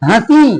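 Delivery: हंसी with a light nasal नून before स; nasal n sound. Shown as a demonstration. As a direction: say हंसी letting the नून sound come through the nose. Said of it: "हंसी में ये नून की बू आएगी". (हंसी में नून की हल्की बू)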